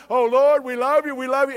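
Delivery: a hint of desperate worshippers; mock pleading cry. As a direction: cry out to the Lord half-mockingly. Israelites voiced crying out.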